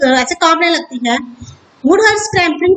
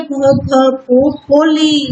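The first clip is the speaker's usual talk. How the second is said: stammering; much slower than usual. Acted. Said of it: "जिसे बोली शुरू करती है".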